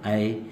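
a short lone ए; just the ए, on its own; isolated ए. Shown as a demonstration. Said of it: "ए की।".

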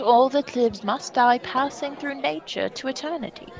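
lightly voiced regal stepfather; King Claudius. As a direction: play the new king offering hollow comfort.

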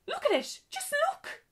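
very high, loud distressed cry; upset shout. Acted. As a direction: shriek it in dismay. Witch upset over ruined costume.

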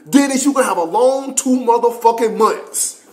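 high mock-sergeant threat; high-pitched retold warning; drill sergeant. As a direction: threaten a recruit, imitated, drawing out "long". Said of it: "little dude that was yelling".

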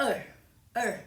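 "er" as an isolated vowel; vowel sound demo. Shown as a demonstration. Teacher introducing a sound, "er" pronounced alone. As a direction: model "er" on its own, twice. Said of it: "เสียงคำว่า".

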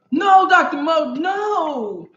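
slow, high shout at Doctor Mo. Real, not acted. Protesting to the chat member.

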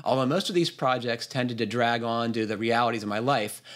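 steady read-aloud voice; reading a listener's email. Acted. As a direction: read the letter out in full, evenly paced.

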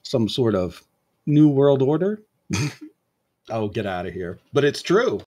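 lightly voiced villain pitching a grand plan; coy suggestion building to a bigger flourish; Leroy, coy usurper. Usurper pitching world order to the crowd, lightly theatrical. Game master resumes Leroy's speech.

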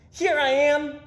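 high, loud surprise call; gleeful shout. A narrator's reading. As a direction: pop out and shout it. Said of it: "shouted Peter".

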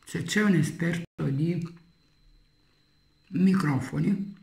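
chewing between words; talking while chewing. Real, not acted. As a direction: mouth partly full of food. Seen 1: bites claw at -3.0, chews with closed lips while speaking.

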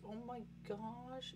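ordinary talk, nothing marked

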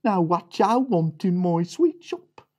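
lightly voiced loud shopkeeper. Shopkeeper greets the little pig, lightly voiced. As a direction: greet the piglet gruffly. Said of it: "the man said".

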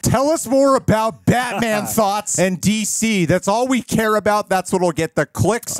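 high, loud send-up of a reporter; mock reporter demand. Reporter demands Batman talk from Affleck, mock high demand. Voicing pushy reporters in retold interview.

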